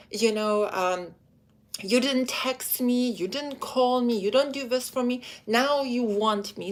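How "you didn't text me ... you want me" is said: higher, resentful complaint; accusing attitude. Retold or imitated. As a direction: list his failings with a grudge. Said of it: "don't have an attitude".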